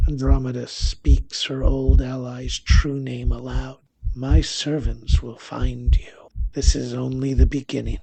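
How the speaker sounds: a hint of a vengeful witch, unhurried and final; menacing crone. Andromeda threatens the dying traitor.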